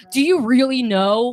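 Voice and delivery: loud, slow doubting imitation; challenging gamer dudes. Male customers quizzing female game clerk, slow mock challenge. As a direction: lightly mimic a sceptical gamer, stretched out. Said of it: "dudes would walk in and be like".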